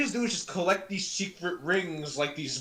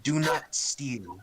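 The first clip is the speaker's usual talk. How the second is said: Shadow impression. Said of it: "really good Shadow impression".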